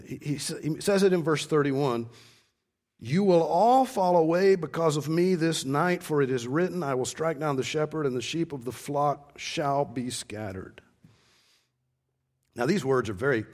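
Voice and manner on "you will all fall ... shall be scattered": scripture reading. Acted. Preacher quotes Jesus's warning to the disciples, solemn reading. Quotes verse thirty-one.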